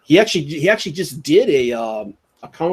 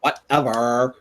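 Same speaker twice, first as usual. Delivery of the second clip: put-on slow valley girl whatever; slower than usual. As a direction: drag out a bored whatever. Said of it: "You sound straight like a valley girl".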